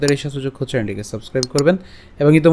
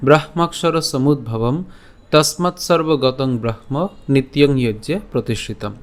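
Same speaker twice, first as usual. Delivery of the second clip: slow, measured Sanskrit verse recital; slow Sanskrit shloka reading; slow verse recitation; slower than usual. Shown as a demonstration. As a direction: recite each line slowly and carefully.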